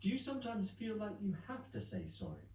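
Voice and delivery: probing talk-show host voice; pressing questioner. Acted. Interviewer voice pressing Peggy.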